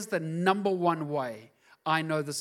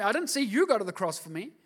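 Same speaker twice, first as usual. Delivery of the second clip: loud, high and defiant; defiant realisation; 7 semitones higher, 5 dB louder than usual. Retold or imitated. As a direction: throw it off with bold defiance. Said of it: "you realize".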